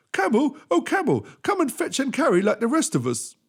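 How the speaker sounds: high, loud eager dog voice. Acted. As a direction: yap it out like a keen dog.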